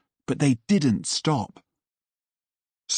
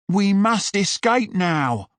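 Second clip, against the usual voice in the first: higher, pressing call to flee; urgent shout; 8 semitones higher than usual. Acted. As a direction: push the urgency, rally the group. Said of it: "shouted Buck".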